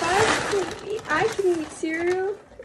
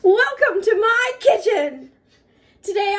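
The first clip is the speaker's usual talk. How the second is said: cooking show host; 5 semitones higher, 7 dB louder than usual. Pretend. Kid hosting a pretend cooking show.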